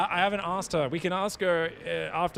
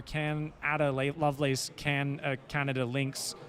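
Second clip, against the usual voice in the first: slow tongue twister; 2 semitones lower, slower than usual. Retold or imitated.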